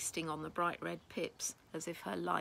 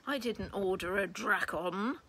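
loud angry roar from the god of the underworld; 2 semitones higher, 6 dB louder than usual. Acted. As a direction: roar it at the wrong pet. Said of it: "Hades roared".

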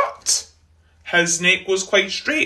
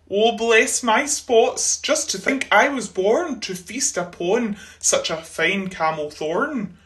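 delighted. Acted. Giraffe delighted by tree.

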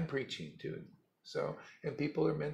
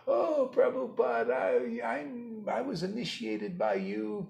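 mock proud disciple; 10 semitones higher, 3 dB louder than usual. Mocking a boastful disciple.

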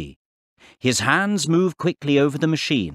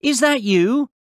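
high-pitched questioning call; 11 semitones higher than usual. A narrator's reading. Boy checks if it is the professor, calling out. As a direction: call to someone you cannot see. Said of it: "Billy called".

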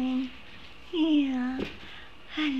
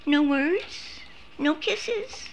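higher coaxing question; 5 semitones higher, slower than usual. Real, not acted. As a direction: coo for kisses up high. High voice to pet.

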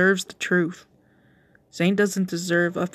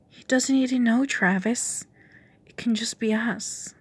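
seductive whisper; 4 semitones higher than usual. Acted. Lucinda whispering to Travis to tempt him.

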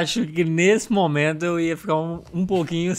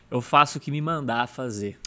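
lower, softer, slow submissive reply; meek answer; 7 semitones lower, 7 dB quieter than usual. Acted. Candidate meekly answering the judges, low and soft. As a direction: answer humbly, half under the breath.

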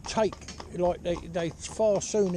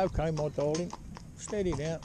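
softer, calm reassurance; soft and gentle; 5 dB quieter than usual. Shown as a demonstration. Rider calming a bucking horse, softer gentle voice. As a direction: soothe a frightened horse quietly. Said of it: "soft and gentle".

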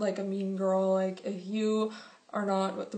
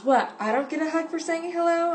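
high, louder mock awkward question; imitating awkward boy; 7 semitones higher, 4 dB louder than usual. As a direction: ape the clumsy boy. Awk just goes.

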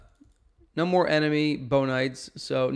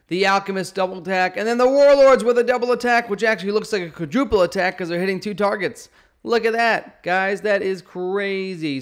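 excited hype; 7 semitones higher, 6 dB louder than usual. Real, not acted. Hyped replay of big hits.

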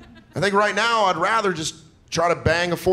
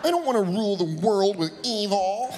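mopey, softer self-pity; emo devil; 2 semitones higher, 4 dB quieter than usual. Retold or imitated. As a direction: whine like a sulky teen. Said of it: "I was like an emo devil".

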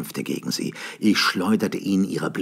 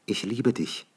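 woman's tender words; 5 semitones higher than usual. A narrator's reading. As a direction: say Ich liebe dich gently as the woman. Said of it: "sagte sie".

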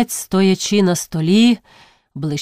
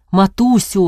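calling out. Acted. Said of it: "окликнув він удруге".

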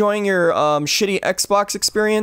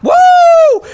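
very high, loud whoop; piercingly high cheer; 11 dB louder than usual. Real, not acted. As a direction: holler a long "woo". Whooping during play.

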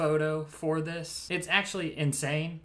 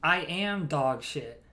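slow, drawn-out mock-grave answer; mock-solemn reply; slower than usual. Parody of the pickup line's answer, mock-solemn. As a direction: own it with hammy gravity.

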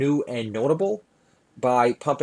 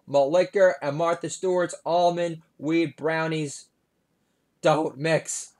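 Obama impression; 4 semitones higher than usual. Obama scolding his daughter at Thanksgiving, hammed-up high voice. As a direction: lecture like a fretting president-dad. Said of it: "my impersonation of Obama".

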